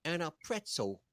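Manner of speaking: hammed-up Philadelphian asking for food; fake Philly accent. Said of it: "Holy fuck, that was good".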